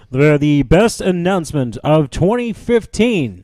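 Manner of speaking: fighting game announcer. Pretend. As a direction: announce it like a show host. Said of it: "I have to give my best announcer voice".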